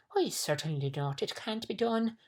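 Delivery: emphatic, rising-pitched agreement; echoing humbug. A narrator's reading. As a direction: agree firmly and officiously. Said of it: "repeated the humbug".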